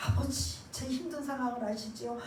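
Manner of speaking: softly whispered plea to Father; hushed silent prayer voice; inner prayer whisper. Shown as a demonstration. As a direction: pray it under your breath. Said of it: "속으로는 아시지요?".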